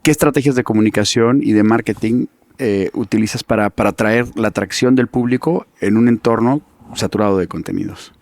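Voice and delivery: light movie trailer announcer voice; lightly dramatic trailer narration. Pretend. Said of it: "voy a poner voz de tráiler".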